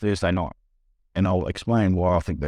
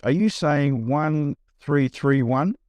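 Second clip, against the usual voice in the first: slow checking question; 5 semitones higher, much slower than usual. Retold or imitated. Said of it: "the agent said".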